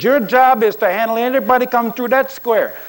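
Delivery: put-on loud, high Latino accent, barking at a player; a Latino coach commanding his lineman up close. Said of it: "he has this distinctive accent".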